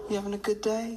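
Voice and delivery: whispered, gentle question. Retold or imitated. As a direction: whisper it kindly to a child. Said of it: "I was like".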